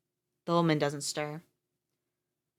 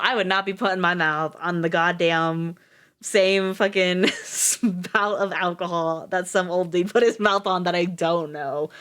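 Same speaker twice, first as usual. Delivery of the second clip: disgusted rant; 5 dB louder than usual. Real, not acted. Reader ranting about shared spout.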